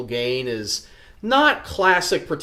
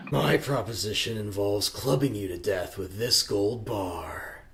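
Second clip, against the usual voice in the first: whisper; 6 semitones lower, 9 dB quieter than usual. Acted. No, really.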